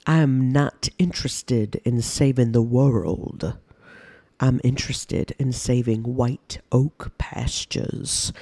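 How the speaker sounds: put-on slow, low Southern Georgia accent; drawn-out South Carolina farmer accent; Georgia drawl. Podcaster imitating a Southern Georgia farmer's accent. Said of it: "one of those kind of Georgia, South Carolina accents".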